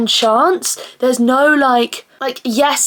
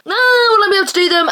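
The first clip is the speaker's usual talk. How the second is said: anxious inner voice; 10 semitones higher, 3 dB louder, faster than usual. Retold or imitated. Anxious self-doubt quoted.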